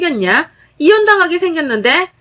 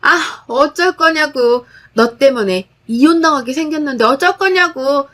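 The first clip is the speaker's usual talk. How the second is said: sister-in-law rushing at her, shrieking in a crazed voice; 3 semitones higher than usual. Acted. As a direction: rant like she's lost her mind. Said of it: "광기 어린 목소리로 말하더군요".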